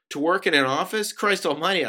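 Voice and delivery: loud, high indignant retort; appalled disbelief. Acted. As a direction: recoil loudly from the suggestion. Appalled reply in acted argument.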